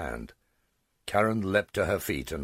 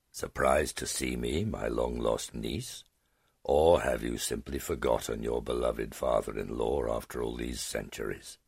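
ancient dragon; 4 semitones lower than usual. Acted. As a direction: taunt her, savouring the surprise. Ancient dragon taunts his niece.

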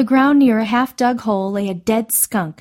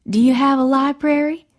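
hopeful; 5 semitones higher than usual. A narrator's reading. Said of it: "Louise asked hopefully".

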